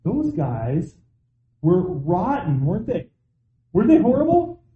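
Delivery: rising into a high, mocking "horrible"; mock judgmental. Mocking those who judge the Bible's villains. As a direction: play the smug finger-pointer. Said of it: "easy to look back and say".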